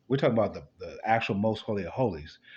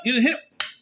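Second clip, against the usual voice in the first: mock shocked reply; 12 semitones higher, 5 dB louder than usual.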